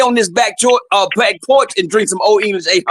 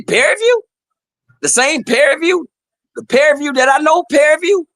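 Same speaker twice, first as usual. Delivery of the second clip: Prairie View higher, as an incredulous question; mock disbelief; 4 semitones higher than usual. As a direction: ask in staged disbelief, several times over. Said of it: "I say".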